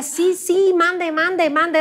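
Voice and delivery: a hint of eager, mock Mexican "mande"; imitating her younger self. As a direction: parrot "mande, mande" like the only word she knows. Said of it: "lo único que yo sabía decir".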